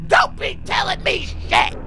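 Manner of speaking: high, loud furious yell back; angry shout. Real, not acted. Yelling back at the phone caller, furious. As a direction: snap back hard at the caller.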